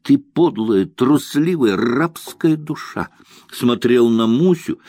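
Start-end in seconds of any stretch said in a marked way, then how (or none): 0.0-3.1 raised, bitter self-reproach; mild mock shout at oneself; inner shouting. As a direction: lash yourself with contempt, slowing at the end. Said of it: "кричал мысленно на себя".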